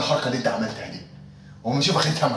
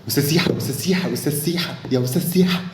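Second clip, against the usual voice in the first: loud repeated call, higher; 4 semitones higher, 6 dB louder than usual. Acted. Colleague calling Siha loudly across the office. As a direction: shout his name across the office.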